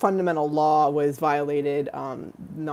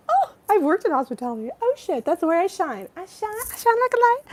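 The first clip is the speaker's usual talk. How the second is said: giddy mock brag. Excited jokey high voice.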